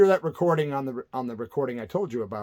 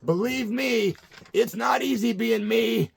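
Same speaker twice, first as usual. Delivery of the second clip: higher, slow mock-weary sigh of a line; wry lament; 7 semitones higher, slower than usual. The singer joking about himself, higher and slow. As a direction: play the misunderstood star, lightly hammed. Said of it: "Gigi saying".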